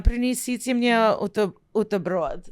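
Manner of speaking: speaking Russian. Shown as a demonstration. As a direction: ask for a sandwich in Russian. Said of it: "get me a sandwich".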